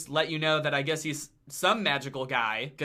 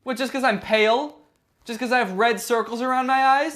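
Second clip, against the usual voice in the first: high, loud, fast offended protest; indignant zombie; 7 semitones higher, 6 dB louder than usual. Acted. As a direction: push back, insulted.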